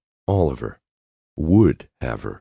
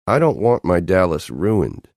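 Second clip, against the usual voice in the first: higher, forceful protective threat; toxic force; 5 semitones higher than usual. Acted. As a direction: venom in every word. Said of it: "ended with toxic force".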